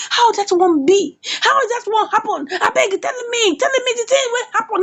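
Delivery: high-pitched, urgent demand to know; acted shock, pitched well up; alarmed disbelief. Friend hearing bad news on the phone, alarmed.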